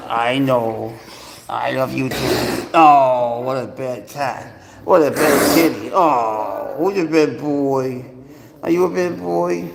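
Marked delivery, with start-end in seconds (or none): 2.7-9.7 slow, loud mock scolding of a pet; baby-talk scolding. Owner fondly scolding his cat, slow baby talk.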